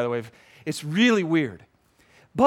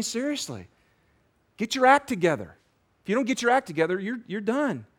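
mild, higher-pitched scolding with pauses; scornful berating; 4 semitones higher than usual. Acted. Accusing voice berates a repeat sinner, mildly scornful. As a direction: scold in incredulous, separate jabs.

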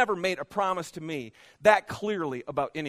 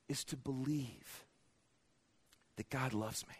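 quiet confession; 6 semitones lower, 10 dB quieter than usual. Real, not acted. Personal confession, drops very low.

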